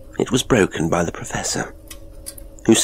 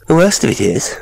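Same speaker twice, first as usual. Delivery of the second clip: high-pitched, louder nervous voice; 9 semitones higher, 6 dB louder than usual. A narrator's reading. Gilday confides in the father about the voice, high and nervous. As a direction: nerves pushing the voice up high and loud. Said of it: "with a high, nervous accent".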